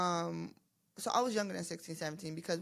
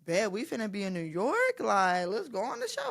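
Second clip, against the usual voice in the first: excited; 2 semitones higher, 4 dB louder than usual. Retold or imitated. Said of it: "so I'm like".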